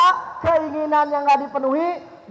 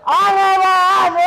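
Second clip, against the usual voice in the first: put-on louder, whining kid's demand; child demanding louder; 5 semitones higher, 5 dB louder than usual. Child whining louder at parents for a phone. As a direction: insist harder like a tantrum starting.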